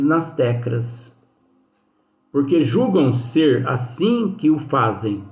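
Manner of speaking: slow, deliberate reading aloud of a quoted text; measured, unhurried recitation of a spiritist text; reading a quotation. Acted. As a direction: read the passage slowly, weighing each phrase. Reads São Luís quotation.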